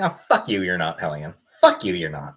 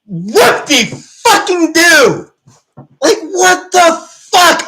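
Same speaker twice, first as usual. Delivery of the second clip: slow, high mock cheer; sarcastic; 5 semitones higher, much slower than usual. Real, not acted. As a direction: drag it out with scorn. Sarcastic rant.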